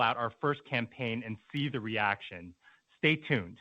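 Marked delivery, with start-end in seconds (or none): none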